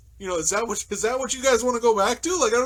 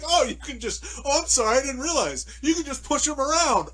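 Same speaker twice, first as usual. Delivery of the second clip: sarcastic mock apology; 6 semitones higher than usual. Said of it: "I'm like".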